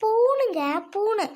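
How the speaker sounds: "பூணுங்க" drawn out high and loud; high, emphatic "பூணுங்க, பூணு"; insistent repetition. Acted. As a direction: stretch "பூணுங்க", then "பூணு", pitched high. Repeats word husband failed to understand.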